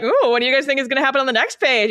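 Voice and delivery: teasing. Pretend. Teasing readers.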